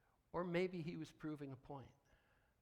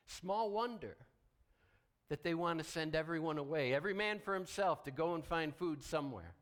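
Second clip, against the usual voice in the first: louder, higher, building preaching force; rising preacher's call; 4 semitones higher, 6 dB louder than usual. Real, not acted. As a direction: preach it out loud to the congregation. Preacher raising voice on fear.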